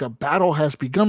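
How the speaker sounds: baffled question with a rising end; mock-confused king rising on begun; incredulous echo. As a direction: repeat the message in disbelief. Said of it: "I'm like".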